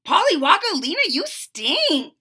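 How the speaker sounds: a hint of a grossed-out boy; teasing kid voice. Froggy reacts to dirty diaper.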